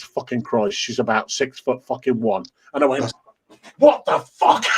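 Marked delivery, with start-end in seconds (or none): 3.8-4.6 high, mock-shocked outburst; high-pitched comic astonishment; retold shock. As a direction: blurt it out in stunned disbelief. Retold shock at tall woman.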